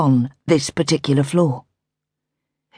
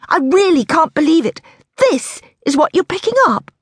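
amazed; 11 semitones higher than usual. A narrator's reading. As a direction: let the disbelief float up. Daisy realises ring purchase.

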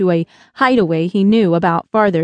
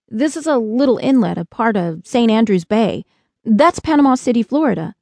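put-on eager, higher boy's voice; lightly voiced Josh; 4 semitones higher than usual. Boy showing lost spacemen where they are, lightly eager. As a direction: point out landmarks helpfully.

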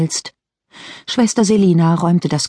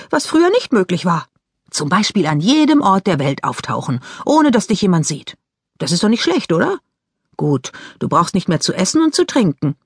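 lightly voiced Mary Lou; lightly voiced teenage girl; 3 semitones higher than usual. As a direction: play the sister, chatty and a bit impatient. Voices Mary Lou cheering him.

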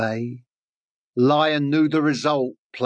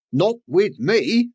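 slow, raised venomous snake voice; hissing snake; 5 semitones higher than usual. Acted. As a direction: let the snake hiss it slowly. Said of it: "the venomous snake did hiss".

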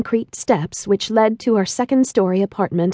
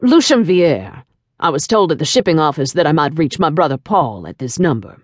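put-on deep French-accented man; 5 semitones lower than usual. A narrator's reading. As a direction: introduce yourself as a suave, commanding French tycoon. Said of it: "deep tone of his voice with its seductive trace of a French accent".

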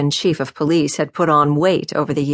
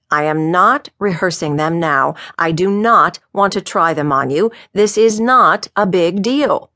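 irritated denial; 2 semitones higher than usual. Acted. Chief refuses to rehearse his remarks on Dan, irritated. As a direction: lean on each denial with mounting irritation.

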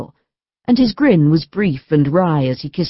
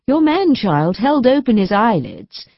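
lightly voiced wife, bright and higher; cheerful young wife; 7 semitones higher than usual. A narrator's reading. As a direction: let the wife's joy lift the line. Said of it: "said Aline cheerfully".

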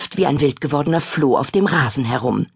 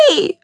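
disgusted shriek; 13 semitones higher than usual. Acted. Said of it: "schreit sie".

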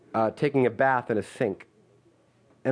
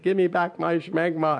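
put-on screaming baby; 3 semitones higher than usual. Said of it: "and it was like".

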